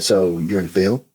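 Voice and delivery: low and slow, like a creep making small talk. Retold or imitated. Imitating a stranger at a horror convention, low and slow. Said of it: "He said".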